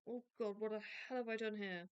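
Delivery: real surprise at her browser; startled exclamation. Real, not acted. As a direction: blurt it out as the screen goes wrong. Screen layout suddenly changes.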